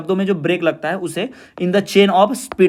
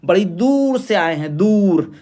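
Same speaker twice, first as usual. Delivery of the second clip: दूर stretched long and pushed; stress on दूर; slower than usual. Shown as a demonstration. Teacher demonstrating stress to students, दूर emphasized. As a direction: lean on दूर, holding the vowel out. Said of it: "तो उस पे हम जोर देते हैं".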